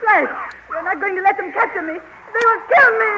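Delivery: high, loud panicked plea, rising to a cry; a frightened queen's high, loud panic as the dwarfs come; terrified pleading. Acted. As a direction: beg him in rising terror not to leave her. Queen dreads capture by dwarfs.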